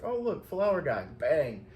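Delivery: playfully spot a target, then fire; imagined shooter. Pretend. Imagining a shooter spotting the flower van, mock excited.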